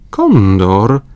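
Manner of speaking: loud rising call. A narrator's reading. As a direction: cry out on spotting the bird. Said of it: "zawołał Paganel". (głośny okrzyk)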